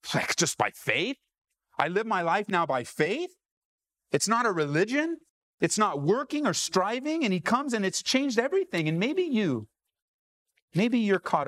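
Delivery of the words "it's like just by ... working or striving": questioning lilt, rising at each phrase end; amazed realization. Acted. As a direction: voice someone marvelling at a sudden discovery. Voices Luther's astonished discovery of faith.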